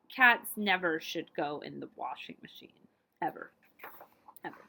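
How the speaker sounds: hushed, low warning; whispered aside. Shown as a demonstration. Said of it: "whispered aside warning".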